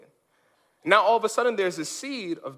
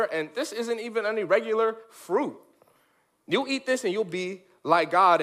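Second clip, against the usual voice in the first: mildly voiced smooth-talking serpent selling the fruit; a hint of a sly serpent; slick tempter. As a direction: pitch it like a salesman. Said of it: "Satan comes along and says".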